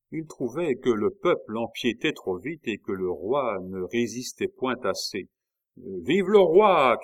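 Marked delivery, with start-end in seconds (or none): 5.8-7.0 high, loud, drawn-out cheer; rallying shout. A narrator's reading. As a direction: shout it slowly to rouse a crowd. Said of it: "cria Biot".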